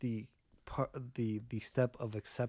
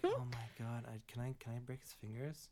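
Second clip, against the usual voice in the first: mock nonchalant; 12 dB quieter than usual. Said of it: "she said it so nonchalantly".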